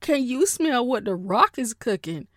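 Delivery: lightly imitated wrestler catchphrase; hammed-up wrestling challenge; The Rock. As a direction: throw out the catchphrase with mock swagger. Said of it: "they think they're The Rock".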